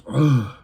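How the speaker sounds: drawn-out sick "ugh"; slow groan of someone ailing; sickly groan. Acted. Imitating a woman needing medication, sickly groan.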